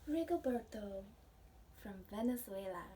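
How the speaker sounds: gentle storybook read-aloud for a class; reading to children. Acted. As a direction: read it like a picture book to little ones. Reading picture book to class.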